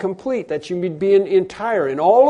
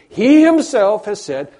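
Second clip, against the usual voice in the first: loud, slow proclamation; emphatic shouting; 4 semitones higher, 7 dB louder, slower than usual. Acted. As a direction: proclaim it forcefully, word by word. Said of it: "God shouting as loud as he can".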